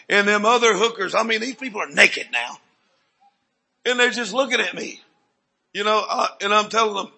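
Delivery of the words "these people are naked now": usual speaking voice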